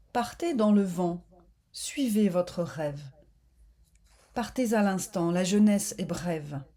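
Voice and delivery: measured poetic reading in short phrases; calm meditative verse reading; poem recitation. Real, not acted. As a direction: recite it line by line, with pauses between.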